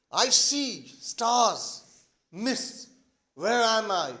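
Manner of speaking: slow, halting acted daze; confused, dazed. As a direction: come round slowly, word by word. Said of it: "He's all confused and dazed".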